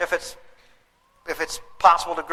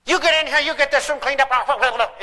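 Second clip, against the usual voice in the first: acting angry; 5 semitones higher than usual. Dad home at night ordering kid to clean room, mock angry shout. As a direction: play the fed-up father snapping at the kid. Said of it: "you even act angry".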